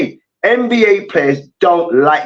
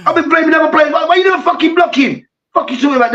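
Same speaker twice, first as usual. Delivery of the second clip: mock furious player; 8 semitones higher than usual. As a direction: play the humiliated player losing it. Player tackled by kicker, furious.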